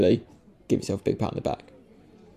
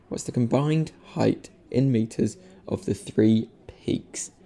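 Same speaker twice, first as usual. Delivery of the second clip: slow, deliberate second go at "combined"; steady, measured reread; careful retry; slower than usual. Real, not acted. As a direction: take it slowly so "combined" comes out clean. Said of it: "I will never be able to n-, say it".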